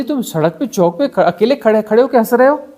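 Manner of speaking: a hint of a finger-wagging moralist; mock moral scolding. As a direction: scold like a prim moralist, half in jest. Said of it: "तुम्हारी नैतिकता बोलती".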